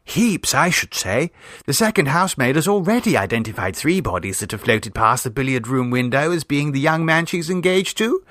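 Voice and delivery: high, breathless storytelling niece; imaginative girl. Acted. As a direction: spin the tale with relish. Vera continues tale.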